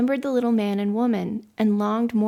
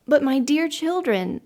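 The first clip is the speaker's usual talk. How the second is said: high, astonished protest; 6 semitones higher, 4 dB louder than usual. A narrator's reading. Mother amazed at what her children want, astonished. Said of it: "said the mother in astonishment".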